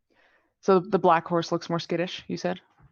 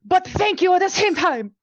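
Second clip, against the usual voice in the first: high, loud French shout; french chef; 13 semitones higher, 7 dB louder than usual. Acted. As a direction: yell it like a fleeing French chef. Player character shouts while fleeing.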